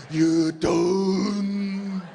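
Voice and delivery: mock breathless, very slow, gasping between words; out of breath. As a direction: puff it out like you just ran a marathon. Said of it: "they sound like they're out of breath".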